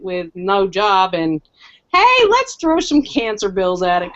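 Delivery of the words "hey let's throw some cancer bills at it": higher, mock-breezy suggestion; sarcastic cheer. Patient on job loss and cancer bills, mock cheer. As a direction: pitch it as a jolly bad idea. Mocking her bad luck, no job.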